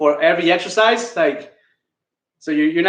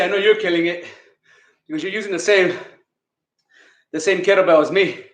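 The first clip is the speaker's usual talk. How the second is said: out of breath. Real, not acted. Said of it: "if I'm this out of breath".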